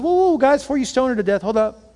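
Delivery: Jesus halting the stoning, high and loud; Jesus stopping the crowd. Retold or imitated. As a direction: step in and stop the mob. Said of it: "Jesus shows up and says".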